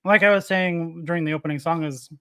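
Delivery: talking around an ice cube; mouth full. Real, not acted. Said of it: "sorry, an ice cube in my mouth".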